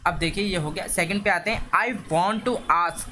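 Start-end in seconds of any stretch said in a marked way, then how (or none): 1.7-3.1 slow dictation. Shown as a demonstration. Teacher dictating the worksheet question to students, very slow. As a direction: read out very slowly, word by word.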